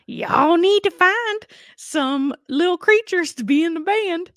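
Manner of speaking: high, slow put-on old woman voice; hammed-up high voodoo lady; Mama Odie impression. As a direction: drawl it out like the swamp queen. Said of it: "Mama Odie goes like".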